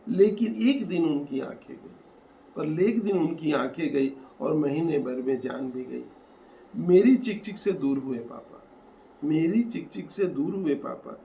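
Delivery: rhythmic, emphatic verse recital; poem recitation. Acted. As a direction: recite it line by line with rising force and pauses. Recites own poem aloud.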